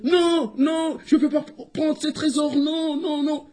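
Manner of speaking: high-pitched wailing hare; crying out. Acted. Squirrel overhears the hare's voice, high wailing protest. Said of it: "la voix du lièvre qui disait".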